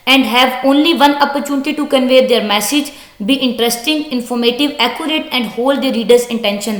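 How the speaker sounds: slow, deliberate reading aloud of an English text; slow textbook reading. Acted. Teacher reading the textbook sentence to students, slow and deliberate. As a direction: read it out word by word for the class.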